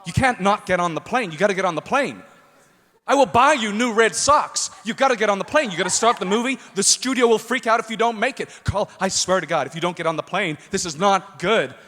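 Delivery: mildly frantic, urgent pleading; frantic agent. Retold or imitated. Agent phones a sleeping actor at night, imitated frantic urging. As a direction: plead urgently, piling one demand on another.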